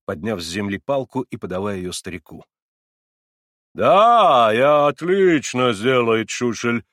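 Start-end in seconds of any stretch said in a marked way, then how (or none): 3.8-6.8 loud, slow modest German; modest German accent. A narrator's reading. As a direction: offer it modestly in broken Russian. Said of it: "скромно подхватил сам герр Кригер".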